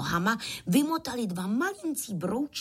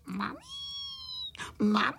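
crying for mummy; 3 dB quieter than usual. A narrator's reading. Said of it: "brečeli na celé kolo a volali".

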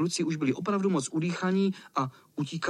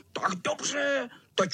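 high, threatening cat voice; high spiteful cat threat; wheezing cat; 9 semitones higher than usual. A narrator's reading. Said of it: "sýpal kocour".

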